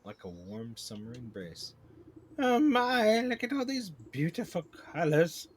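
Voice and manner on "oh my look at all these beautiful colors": high, loud, wonderstruck queen; dazzled queen bee. Acted. Queen marvels at beautiful colors, dazed wonder. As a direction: gush with amazement, slowing at the end.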